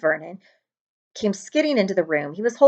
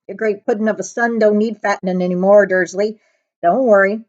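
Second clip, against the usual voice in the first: louder, mocking giant voice; dark chuckle; 6 dB louder than usual. The giant mocks Dursley about his son, louder. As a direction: tease Dursley with grim amusement. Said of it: "The giant chuckled darkly".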